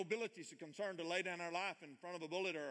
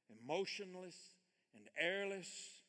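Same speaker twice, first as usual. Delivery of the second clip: slow reading; 3 semitones higher, slower than usual. Shown as a demonstration. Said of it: "so I'm gonna read it slow".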